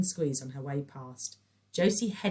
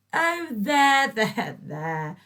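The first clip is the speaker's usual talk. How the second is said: mock soothing; 7 semitones higher, 8 dB louder, much slower than usual. A narrator's reading.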